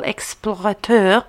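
explorateur slowly, French "-teur" ending; attempted French pronunciation. Shown as a demonstration. Host who can't switch very well, careful French explorateur. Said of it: "I can't switch very well".

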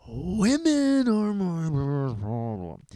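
very slow, loud, swelling wail; drawn-out lament. Acted. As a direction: stretch every word into a hammed-up loud confession. Exaggerated confession of his problem.

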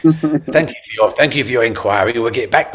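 put-on loud Scottish accent sliding into Yorkshire; botched Scottish accent. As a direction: attempt Scottish and land in Yorkshire. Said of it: "I do a Scottish language ... I went Yorkshire then".

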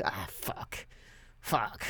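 mock-dejected, breathy low cursing; dismayed reaction. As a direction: curse under your breath in resignation. Acting out reaction to repeated wrecks.

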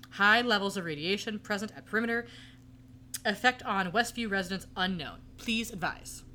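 flat, eerie robotic reading; creepy monotone voice. Retold or imitated. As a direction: read it like a hypnotized drone. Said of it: "in the same creepy monotone voice".

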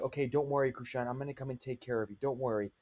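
calm him down, lightly soothing; reassuring. Retold or imitated. Older sibling reassuring scared little brother, softly. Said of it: "I'm like".

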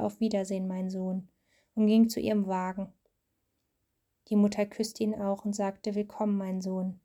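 steady storybook reading voice; reading to a child. A narrator's reading. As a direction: read the story aloud to your child. Mother reads Bible story aloud.

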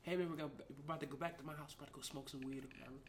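put-on girl voice. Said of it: "this girl, she was like".

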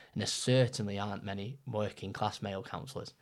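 a touch of a posh English voice; lightly put-on posh accent. Real, not acted. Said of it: "I said that with a posh voice".

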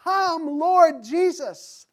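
high, loud, slow Lord Jesus; ringing call for Jesus to come; fervent prayer. Acted. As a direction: plead with full heart.

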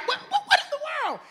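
fast, high, laughing disbelief; incredulous laughing. Real, not acted. Preacher laughing at the congregation in disbelief. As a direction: throw up your hands in laughing disbelief.

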